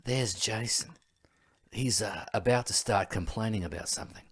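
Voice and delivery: hushed, bad Steve Irwin-style Australian commentary; horrible Australian accent. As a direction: imitate a friend's terrible Australian wildlife-host impression. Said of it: "does this horrible Australian accent".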